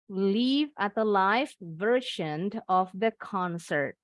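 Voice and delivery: Live as LIV, then live as LAIF; slow contrast of Live and live; two readings. Shown as a demonstration. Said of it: "Bacanya ada dua". (Live dibaca liv lalu laif)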